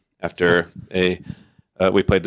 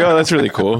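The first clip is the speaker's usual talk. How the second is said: higher and louder, overeager; mock polite excitement; 8 semitones higher, 4 dB louder, faster than usual. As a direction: gush like a starstruck fan. Retelling his own awkward reply.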